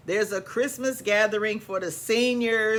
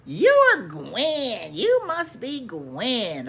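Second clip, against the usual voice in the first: Margaret's greeting; 2 semitones higher, slower than usual. Retold or imitated. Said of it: "She comes over".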